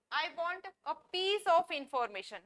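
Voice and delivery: each word spaced out slowly for students; slow model sentence. Shown as a demonstration. Teacher reading an example sentence for learners, slowly. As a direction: dictate it slowly. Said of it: "मुझे एक information चाहिए".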